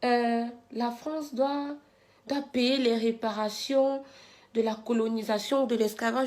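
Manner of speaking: soft, dismissive mocking whine; mocking protester voice. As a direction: mimic a worn-out protest slogan. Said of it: "c'est quoi votre troisième refrain".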